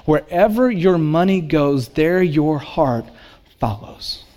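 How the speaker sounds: slowing, the last word fading to a breath. Acted. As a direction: let "follows" fade almost to a whisper. Sermon key line repeated.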